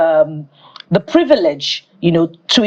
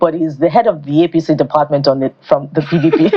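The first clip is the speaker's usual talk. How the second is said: words bubbling through a real laugh; laughing while talking; 2 semitones lower than usual. Real, not acted. Teasing a cohost about party loyalty, laughing. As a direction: chuckle through the punchline.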